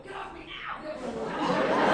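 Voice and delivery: slow laughing yell of get off me; laughing shout. Real, not acted. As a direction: shout it through real laughter. Playful struggle, laughing shout.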